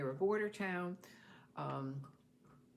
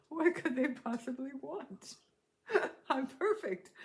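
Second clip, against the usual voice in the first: mock innocence; 9 semitones higher, 5 dB louder than usual. Mock innocence at police lights.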